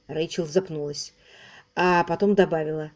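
plain reading voice

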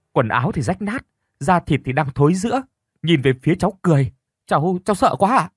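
a touch of scared stammer; stammering in fear. Acted. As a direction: tell it shaken and scared, voice rising. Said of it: "Tôi lắp bắp nói".

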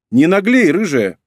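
loud, high-pitched scolding; indignant. A narrator's reading. Woman scolding the cheeky redhead, indignant. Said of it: "возмутилась та в ответ".

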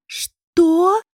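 high, loud cry of disbelief; shocked cry. A narrator's reading. Нетали кричит Басту, узнав о пари: громкий крик. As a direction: cry it out, stunned. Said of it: "вскричала Нетали".

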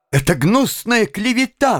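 high-pitched indignant protest; angry exclamation. A narrator's reading. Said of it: "воскликнула Вероника со сверкающими от гнева глазами". (гневно восклицая)

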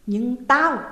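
shout cut off. A narrator's reading.

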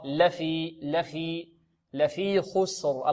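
لفي soft with a thin lam; light lam in لفي. Shown as a demonstration. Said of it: "مرققة". (لام مرققة)

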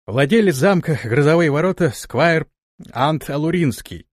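out of breath, holding back a groan; panting and stifling a moan; biting down on pain. Acted. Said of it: "тяжело дыша и сдерживая стон".

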